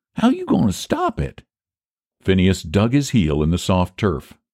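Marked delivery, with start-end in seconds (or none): 0.2-1.4 very high, worried and anxious tone. A man asks his friend a question, anxiously. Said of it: "he asked anxiously".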